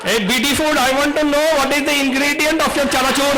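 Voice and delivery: high, kiddish voice; childlike director. Retold or imitated. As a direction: play him like a small boy asking. Imitating young director's childlike voice.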